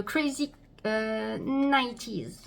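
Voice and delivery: product name tried in a slow English accent. Shown as a demonstration. Vlogger reading a product name in English accent. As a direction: stretch out nineties the English way. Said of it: "je sais pas si mon accent était très bien".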